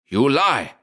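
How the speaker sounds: accuse, partly holding the cry back; half-stifled cry. A narrator's reading. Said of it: "cried the other in a half-stifled voice".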